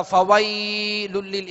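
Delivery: "फवैलुल लिल" with the ai glide dragged out too long; "फवैलुल लिल" with an overlong diphthong; overstretched leen. Shown as a demonstration. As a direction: exaggerate the length of "वै" in "फवैलुल लिल". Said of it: "इस तरह भी नहीं पढ़ेंगे".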